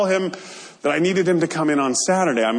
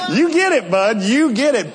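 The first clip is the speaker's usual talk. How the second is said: laughing through the words, pitched up; laughing reply; 5 semitones higher, 4 dB louder than usual. Retold or imitated. Answering Ken's joke with relief, laughing while talking. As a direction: laugh it back to him, relieved.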